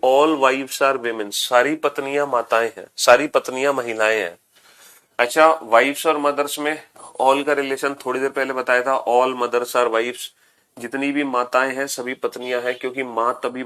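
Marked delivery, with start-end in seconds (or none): 0.1-1.3 slow dictation. Shown as a demonstration. Teacher dictating English rule. 9.1-10.3 slow dictation. Shown as a demonstration. Teacher dictating English rule.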